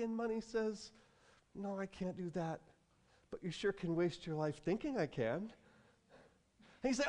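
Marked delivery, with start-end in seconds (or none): 1.5-5.5 soft, understated comeback; deflating refusal. Acted. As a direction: turn them down quietly. Money's deflating reply.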